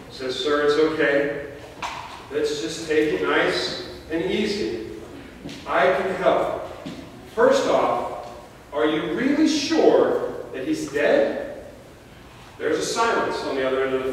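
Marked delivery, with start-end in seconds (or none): 0.4-11.6 lightly voiced calm operator, easy and gentle; a hint of a soothing emergency operator. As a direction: reassure the caller gently. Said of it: "in a calm, soothing voice".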